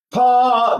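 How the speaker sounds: high open "pa" letting air leak; a singer's pitched "pa", breath escaping; leaky demo "pa". Shown as a demonstration. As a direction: show a leaky sung syllable. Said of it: "So if I go".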